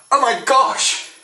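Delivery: high, slow gasp of delight; excited gasp. Acted. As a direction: squeal it out slowly. Excited at camera.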